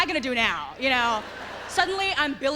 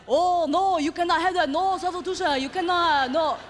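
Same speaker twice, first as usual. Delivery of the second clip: loud, high prissy mock scolding; hammed-up snooty refusal; mocking table snobs; 6 semitones higher, 5 dB louder than usual. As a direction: sneer at her like snooty diners. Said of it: "They're like".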